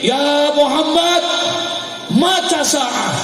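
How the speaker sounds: high, drawn-out yell of a brash youth; imitating a youth crying out; retold shout. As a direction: call out high and long, stretching each word. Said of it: "ini anak muda teriak".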